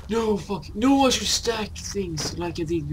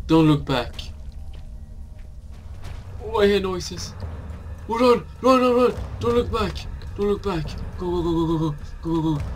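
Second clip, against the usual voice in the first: being chased; faster than usual. Real, not acted. Fleeing spiders, urging himself on.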